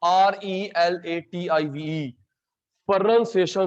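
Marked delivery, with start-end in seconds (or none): 0.0-2.1 letters spelled one by one, slow; spelling out slowly. Shown as a demonstration. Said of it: "spelling same है". (अक्षर-अक्षर धीरे बोलना)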